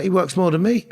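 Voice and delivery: laughs through the words; amused disbelief, chuckling; laughing it out fondly. Real, not acted. Laughing about brother's busy work.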